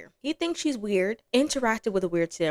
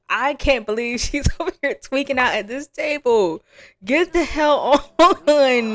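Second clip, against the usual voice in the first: exasperated yell; 6 semitones higher, 8 dB louder, slower than usual. Real, not acted. Exasperated at sim at table.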